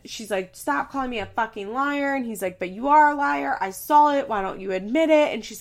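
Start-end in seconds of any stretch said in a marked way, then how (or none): 0.6-2.1 mock yell, higher pitched; retold screaming. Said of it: "They're screaming". 2.6-5.3 loud, raised mock-argument voice; retold screaming. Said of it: "They're screaming".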